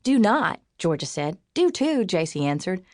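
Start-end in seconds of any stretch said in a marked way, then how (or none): 0.0-0.6 bickering retort. A narrator's reading. Friends bickering back and forth. 1.5-2.0 bickering comeback. A narrator's reading. Friends bickering back and forth.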